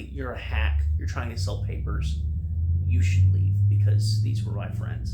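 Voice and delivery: loud, angry scolding; angry telling-off. Retold or imitated. Scientist friend berating the reporter at the funeral, loud and angry. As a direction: shout him down, furious and loud. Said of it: "the scientist friend of theirs is saying".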